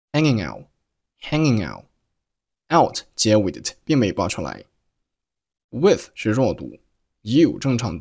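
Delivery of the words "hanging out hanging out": "hanging" running into "out"; linked "hanging out". Shown as a demonstration. Teacher showing how "hanging out" links together. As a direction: join "hanging out" without a break. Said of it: "hanging和out连读成了hanging out".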